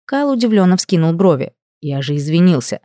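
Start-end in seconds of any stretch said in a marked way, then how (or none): none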